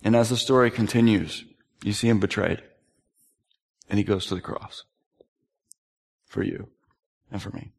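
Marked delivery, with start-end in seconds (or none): 1.8-7.7 low, fading to almost nothing; softer and softer, much lower; fading reverence. Real, not acted. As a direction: let it sink to a hush. Sermon climax fading out.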